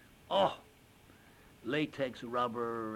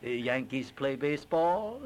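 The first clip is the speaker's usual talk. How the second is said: put-on Chinese accent; 3 semitones higher, 4 dB louder than usual. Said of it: "with a little Chinese accent".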